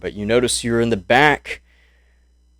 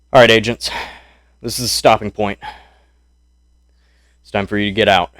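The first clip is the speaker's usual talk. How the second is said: louder barked command, quick; soldier's order; 4 dB louder, much faster than usual. Acted. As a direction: call the agents out of the truck. GM voicing American soldier.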